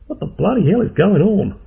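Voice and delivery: shrieking alarm from the doorway; woman crying out. A narrator's reading. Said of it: "cried a woman's voice".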